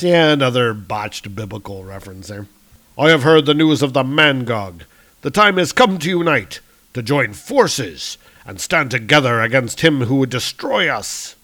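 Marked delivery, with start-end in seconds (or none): 3.0-11.4 lightly theatrical thunder god; grand heroic appeal; rallying hero. Acted. Hero urging his brother to join forces, grand appeal.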